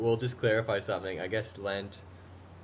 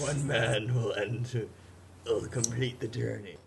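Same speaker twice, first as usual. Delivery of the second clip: slow, dramatic trailer narrator; lightly hammed movie-trailer voice; 3 dB quieter, slower than usual. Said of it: "keep the narrator voice going".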